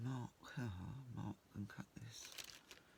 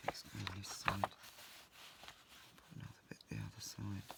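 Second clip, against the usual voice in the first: muttering. Real, not acted. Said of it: "Sorry if I sound like I'm muttering".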